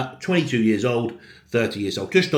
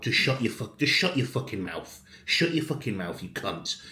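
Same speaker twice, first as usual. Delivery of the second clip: irate; 5 dB quieter than usual. Real, not acted. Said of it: "You can see I'm getting irate".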